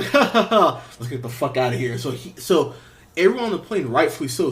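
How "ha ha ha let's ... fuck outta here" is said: mock villain laugh. Homelander mocking the passengers, hammed-up taunting laugh. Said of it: "And go".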